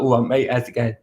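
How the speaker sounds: casual Essex greeting to a mate; Essex accent. Shown as a demonstration. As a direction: drop into a cheeky Essex accent. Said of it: "very Essex".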